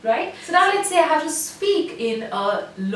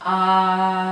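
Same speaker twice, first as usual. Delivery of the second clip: high ah; 5 semitones lower than usual. Shown as a demonstration. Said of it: "consciously go higher in the ah".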